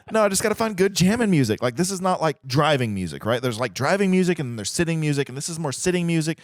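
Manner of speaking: female co-pilot voice. Acted. Co-pilot voice answers.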